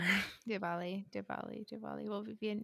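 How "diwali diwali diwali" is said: Diwali tried quietly, between V and W; softly repeated Diwali, W nearing V. Shown as a demonstration. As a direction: test out Diwali with a not-quite V. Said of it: "like, not quite V, but similar".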